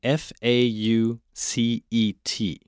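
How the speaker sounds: faucet spelled slowly as F A U C E T. Shown as a demonstration. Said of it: "请Duncan帮我拼一下这个水龙头，faucet".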